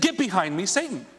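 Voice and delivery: sharp, rising rebuke on Satan; angry rebuke. Retold or imitated. Jesus turns on the one tempting him, angry rebuke. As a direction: snap it at the tempter. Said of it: "he literally lost it".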